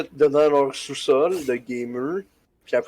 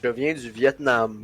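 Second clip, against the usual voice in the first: lower, slow character imitation; Jet; 4 semitones lower, 4 dB quieter than usual. Imitating a game character on request, low and slow. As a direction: drop the pitch and slow right down. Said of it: "Imite Jet".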